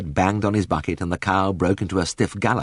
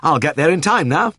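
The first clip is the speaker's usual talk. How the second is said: high and breathless with relief; happy panting; 9 semitones higher, 4 dB louder than usual. A narrator's reading. Vet jumping into the car, high and happily panting. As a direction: gasp it out gladly.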